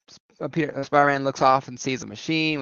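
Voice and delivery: ordinary talk, nothing marked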